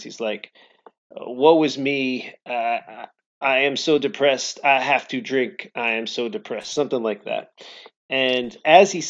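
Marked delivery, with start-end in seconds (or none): 1.1-6.7 slow, lightly hammed French lament; mock French narrator. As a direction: drawl it like a melodramatic French narrator. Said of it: "the narrator is saying his lines".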